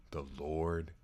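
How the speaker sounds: slow, hushed whispered echo; awed whisper. Retold or imitated. People fallen face down whispering in awe, slow whisper. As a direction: breathe it out in awe.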